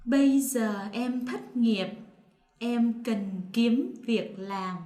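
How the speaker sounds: northern standard, giờ with a z sound; northern Vietnamese standard. Shown as a demonstration. Partner reads sentence two in northern Vietnamese. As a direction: say it the Hanoi way, separating final t and c. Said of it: "me will say it in the non-dialect".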